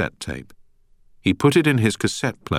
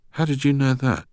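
a startled, higher question; surprised; 8 semitones higher than usual. A narrator's reading. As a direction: caught off guard, pitch jumping higher. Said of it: "asked a surprised-sounding voice".

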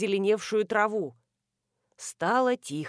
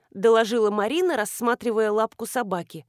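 ordinary delivery, nothing marked

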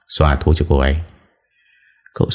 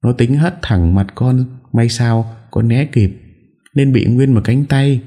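high, tearful whine of grievance; wife tearfully complaining to her in-laws; whimpering complaint; 7 semitones higher than usual. A narrator's reading. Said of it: "An Nhã mếu máo".

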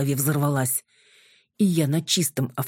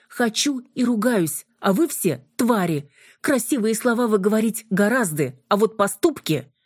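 defiant anger; 7 semitones higher than usual. Acted. Юля огрызается на просьбу.

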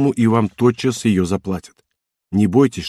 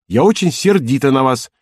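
mock-angry shout; 4 semitones higher, 3 dB louder than usual. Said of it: "крикнула Казетта".

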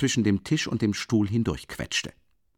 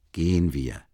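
bestimmt; 4 semitones lower than usual. A narrator's reading. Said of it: "wiederholte Sosimow sehr bestimmt".

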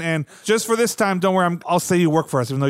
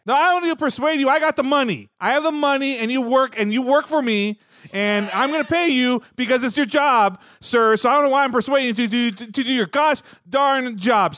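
higher, pushy, impatient boss; indignant; 5 semitones higher than usual. Acted. Producer to doctor, impatient and pushy, pitched up. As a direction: push him like the one holding the money.

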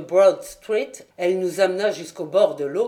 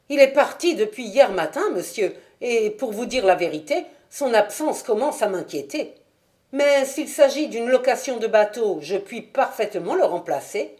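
a fussy wife rattling on to a gentleman; Mrs Smith; 4 semitones higher than usual. Acted. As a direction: chatter up high like a flustered landlady. Landlady voiced by narrator.

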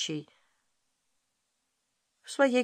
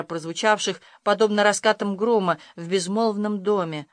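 ordinary delivery

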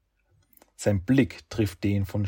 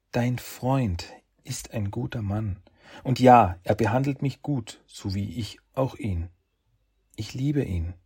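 higher female voice with a firmer edge; young woman's voice, cooling; 3 semitones higher than usual. Acted. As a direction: let the warmth slip out as she defends him. Shen defends Yoshi, cooling.

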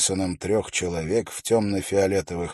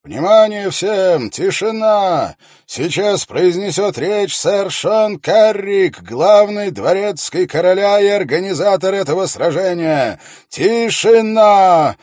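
booming herald's call, slow and high; town crier; 11 semitones higher, 9 dB louder than usual. A narrator's reading. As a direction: proclaim it across a packed square. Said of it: "громкий, отчётливый голос Герольда".

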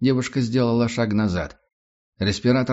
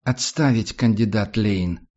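commanding; slower than usual. Acted. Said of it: "резким и уверенным тоном команда".

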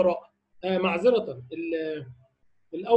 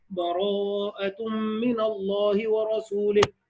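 Quran recitation demo; slower than usual. Shown as a demonstration. Teacher showing Baqara to Tawba joins, slow recitation. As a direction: recite the join slowly three times. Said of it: "أقول لك بينها أوجه".

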